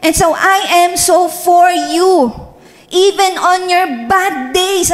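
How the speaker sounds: slow, tender and reassuring; slow it right down, gently reassure her; tender voice of God. Retold or imitated. God gently reassuring the pastor of His love, slow and tender. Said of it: "Sabi ng God".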